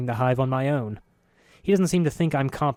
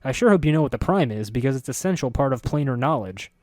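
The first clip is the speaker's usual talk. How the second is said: incredulous; 4 semitones higher, 5 dB louder than usual. Acted. Incredulous at narrator's ignorance.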